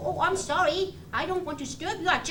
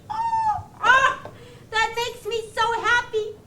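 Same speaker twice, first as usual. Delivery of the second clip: overjoyed; 3 semitones higher, 3 dB louder than usual. Acted. Puppet overjoyed, cheek returned.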